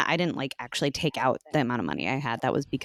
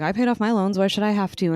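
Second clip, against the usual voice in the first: mock indignant quote; 5 semitones higher, 4 dB louder than usual. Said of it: "it's like".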